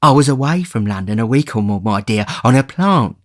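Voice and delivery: Fagin excusing himself to Bill. Acted. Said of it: "replied the Jew".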